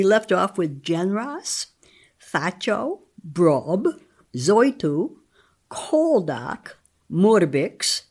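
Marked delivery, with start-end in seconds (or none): 2.2-8.0 slow, deliberate reading of each made-up name; sounding out nonsense names. Shown as a demonstration. Reading invented names for listeners, careful and slow. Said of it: "attempting to read these names".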